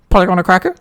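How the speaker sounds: high, loud squawky parrot. Acted. Podcaster plays the hidden parrot in his joke, high squawk. Parrot voiced under shirt.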